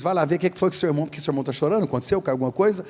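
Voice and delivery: quick, high worried mom; worried mother. Retold or imitated. Mother sending Ricardo to check on his crying brother, quick and worried. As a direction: hurry the older son off like an anxious mother.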